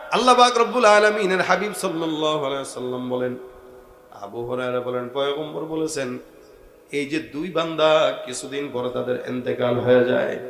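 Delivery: low, measured preacher's storytelling; hushed sermon narration. Acted. Preacher tells of two servants dying, hushed sermon narration. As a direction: bring the sermon down for the tale.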